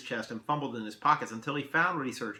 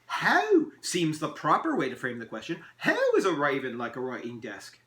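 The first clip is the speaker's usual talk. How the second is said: fussy elf; 3 semitones higher, 5 dB louder than usual. Acted. Elf holds forth.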